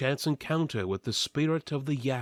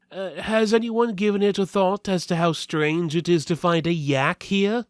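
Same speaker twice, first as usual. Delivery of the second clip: higher, hesitant, puzzled steward voice; fussy steward; 7 semitones higher, 4 dB louder than usual. Acted. Steward to the party, higher and puzzled. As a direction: raise an odd question timidly. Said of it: "the steward asked".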